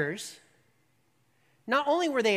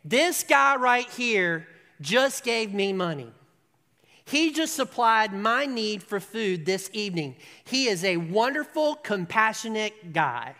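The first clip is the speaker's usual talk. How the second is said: grateful beggar proclaiming; 4 dB louder than usual. Retold or imitated. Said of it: "stand up and say".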